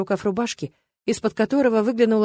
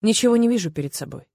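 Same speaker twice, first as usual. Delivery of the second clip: usual speaking voice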